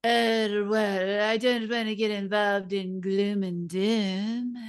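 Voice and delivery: light South African accent imitation; hint at her South African accent. Imitating a South African caller in a light South African accent. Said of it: "South African accent".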